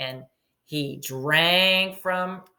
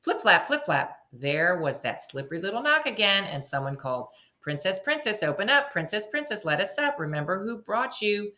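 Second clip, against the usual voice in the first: story narration. A narrator's reading. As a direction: read it like a picture book to a class. Teacher reading story aloud.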